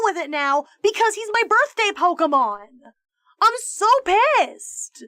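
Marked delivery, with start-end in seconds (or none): 3.4-5.0 slow, higher, louder dramatic whine; mock tantrum. Real, not acted. Streamer to chat, overacting despair about her Pokemon with a dramatic whine. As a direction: ham up the outrage, drawn out.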